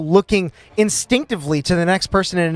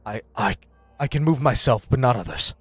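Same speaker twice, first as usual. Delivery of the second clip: low, soft hesitant reply; wide-eyed character; 6 semitones lower, 3 dB quieter than usual. Acted. Frightened ally answering a whispered plea, soft and hesitant. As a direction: falter softly on the first word. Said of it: "he looks to you wide-eyed".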